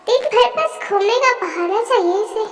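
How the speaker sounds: soft, sneering grumble; muttered aside. Acted. Brother mutters about his sister's excuses, a soft sneering aside. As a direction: say it as a private jab.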